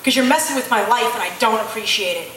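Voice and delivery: a touch of retold anger, tossed off at God; half-hearted mock anger with a flippant edge; angry and flippant. Woman on the roadside retelling how she snapped at God, mildly angry and flippant. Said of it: "very angrily and very flippantly said".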